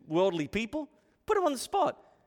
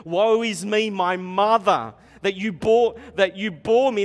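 loud lament; 3 semitones higher, 9 dB louder than usual. Acted. Reading Jeremiah's lament.

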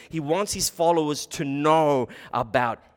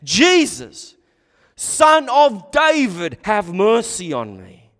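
loud, raised cry for mercy; 4 semitones higher, 10 dB louder, slower than usual. Retold or imitated. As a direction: call out slowly and loudly, pleading for mercy. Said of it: "he began to cry out and say".

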